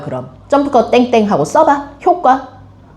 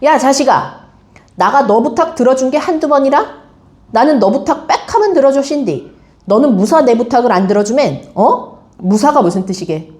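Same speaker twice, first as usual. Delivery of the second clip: mild mock anger, reading a scolding phone call; angry. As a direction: scold the friend, only half in earnest. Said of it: "화내듯이". (가볍게 화내듯 읽는 대사)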